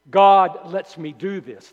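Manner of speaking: loud, slow claim of God's leave; false teacher's claim. Acted. Preacher voicing what false teachers might say, loud mock claim. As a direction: boom it out as a self-justifying teacher. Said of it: "they might say".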